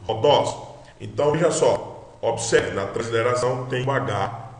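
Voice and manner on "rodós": "rodós" with the final syllable DÓS stressed. Shown as a demonstration. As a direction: lean on the last syllable of "rodós". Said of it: "sinoforte é a última". (tônica forte no DÓS de "rodós")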